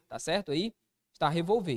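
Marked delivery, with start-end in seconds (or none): 1.3-1.8 "revolver" stressed on final ver; stress on last syllable. Shown as a demonstration. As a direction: put the weight on ver in "revolver". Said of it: "isso não existe não". ("revolver" oxítona, tônica no ver)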